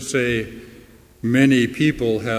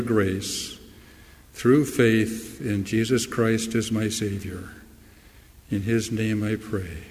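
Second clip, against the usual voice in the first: closing prayer; 2 semitones lower than usual. Acted. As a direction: pray it humbly, easing down toward the amen.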